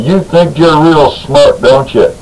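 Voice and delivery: slow, snarled through gritted teeth. Retold or imitated. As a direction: sneer it out slowly through clenched teeth. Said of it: "with her teeth gritted together".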